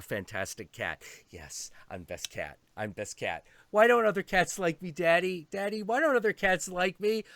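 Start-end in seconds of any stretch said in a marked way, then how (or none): 3.7-7.2 higher, plaintive whine; whiny cat. Retold or imitated. Lonely cat asking its owner, whiny. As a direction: ask Daddy sadly like a lonely cat. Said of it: "cat voicing".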